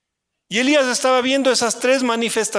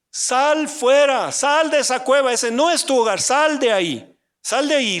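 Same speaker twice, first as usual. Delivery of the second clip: God's command; 5 semitones higher than usual. Acted. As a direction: call him out of the cave firmly. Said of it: "y le dijo". (Dios ordena a Elías salir, voz firme y alta)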